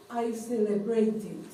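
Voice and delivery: "celebrated" despacio, con la T bien pronunciada; T marcada en celebrated. Shown as a demonstration. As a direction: marca la T de "celebrated", sílaba por sílaba. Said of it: "con la T". ("celebrated" pronunciado con T clara, lentamente)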